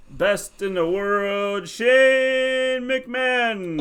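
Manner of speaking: high, drawn-out ring announcer chant; imitating toddler son's announcing. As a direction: stretch each word like a little kid announcing a wrestler. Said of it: "'Cause he would always do".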